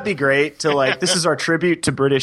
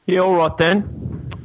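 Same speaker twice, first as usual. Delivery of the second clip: higher, slow mock-British greeting; fake British accent; 5 semitones higher, slower than usual. Co-host answering the host's introduction, in a fake British accent. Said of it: "enough of the fake British accents".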